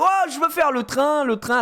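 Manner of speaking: put-on high childlike "oh, I want to do the train"; little daughter's voice. Father imitates his daughter seeing the ride, high child voice. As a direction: voice an eager little girl begging. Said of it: "elle fait".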